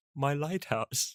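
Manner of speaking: tender, soft, precious little voice. Imitating another speaker talking about a lighthouse: imitating a precious, tender tone. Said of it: "it just sounded so precious to you".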